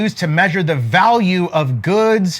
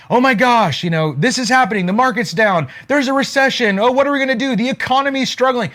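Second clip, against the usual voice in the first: higher-pitched mock worry; mock panic; 5 semitones higher, faster than usual. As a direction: imitate people fretting over bad news, lightly. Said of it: "don't get scared during times of recession".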